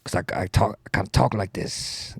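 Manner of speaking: lightly voiced, unconvincing senator; a hint of a politician's accent; Bernie Sanders. Politician explaining his speech, weak impression. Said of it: "you don't sound anything like Bernie Sanders".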